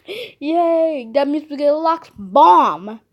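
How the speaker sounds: delighted gasp and cheer; excited cheer. Real, not acted. Excited at finding bird key.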